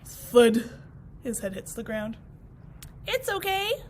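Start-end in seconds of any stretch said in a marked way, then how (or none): 3.1-3.8 reassuring. Acted. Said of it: "says the grass".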